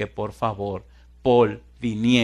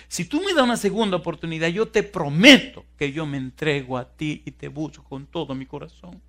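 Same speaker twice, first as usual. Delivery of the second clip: higher-pitched, earnest imitation of begging; acted pleading prayer; 6 semitones higher, 5 dB louder than usual. Trapped woman promises herself to God, pleading. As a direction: raise the pitch as the vow pours out. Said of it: "empezó a rogar y a clamar a Dios".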